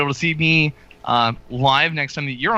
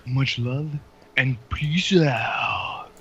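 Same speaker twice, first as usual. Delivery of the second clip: slow catchphrase; 2 semitones lower, much slower than usual. Shown as a demonstration. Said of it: "catchphrase by Mister Riddlesworth".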